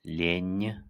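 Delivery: "Ленькая" with a soft palatal N; soft-sign demo. Shown as a demonstration. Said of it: "N is soft because of the soft sign".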